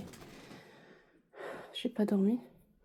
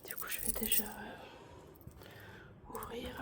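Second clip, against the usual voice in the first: whispering; 21 dB quieter, much slower than usual. Real, not acted. Whispering near sleeping baby.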